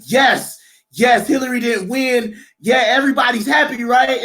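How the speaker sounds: retelling his own gleeful cheer over the win; gleeful gloating. Retold or imitated. Trump voter to friends, retold gleeful cheer. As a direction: cheer it with a grin, mock triumphant.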